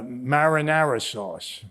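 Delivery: slow marinara sauce, flat "mair-uh-nair-uh"; the outsider's slow marinara sauce; imitating mispronunciation. Mocking how others say it, a slow marinara. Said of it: "It's marinara sauce".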